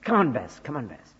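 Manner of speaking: lightly voiced dog calls, first loud then fading; northern shepherd calls. Preacher recalls his North shepherd calls to his dogs, lightly voiced. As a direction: call to the dogs in old northern shepherd terms. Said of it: "Up in North we used to say".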